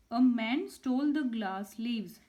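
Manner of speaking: reading each word out slowly and clearly; slow dictation. Shown as a demonstration. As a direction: spell it out for pupils, unhurried. Teacher reads worksheet sentence aloud.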